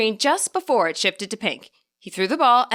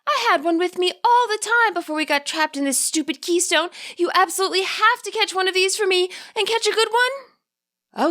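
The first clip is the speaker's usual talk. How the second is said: sighing spirit voice; 11 semitones higher than usual. A narrator's reading. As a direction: swoon over the Happiny with a sigh. Spirit demanding a Happiny.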